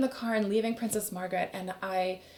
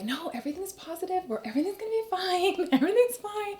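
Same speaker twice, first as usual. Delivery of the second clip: forced positivity; 8 semitones higher than usual. Retold or imitated. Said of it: "I remember telling my family".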